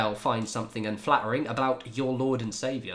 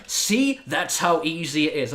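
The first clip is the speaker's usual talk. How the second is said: higher, louder mock boast; imitating smug coworker; 6 semitones higher, 6 dB louder, slower than usual. Imitating a former colleague's LinkedIn post, high mock smugness. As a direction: crow it like a mock know-it-all. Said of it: "and he was like".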